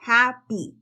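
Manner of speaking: happy ending in a short Spanish i. Shown as a demonstration. Teacher shows the final Y sound. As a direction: end happy on a plain Spanish i. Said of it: "es una I".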